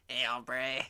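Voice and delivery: put-on chihuahua with a light Mexican accent. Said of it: "he had a Mexican accent".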